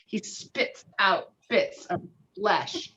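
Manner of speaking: ordinary talk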